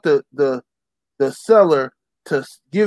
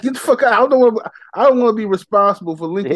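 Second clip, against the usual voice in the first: higher, annoyed telling off; irritated brush-off; 5 semitones higher, faster than usual. Retold or imitated. Stranger asking for Ram's contact, higher irritated telling off. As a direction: tell the asker to get lost. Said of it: "I'm like".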